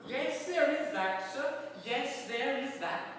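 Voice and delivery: hammed-up cockney warder; gloating warder. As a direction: crow it like a smug jailer. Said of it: "said the warder".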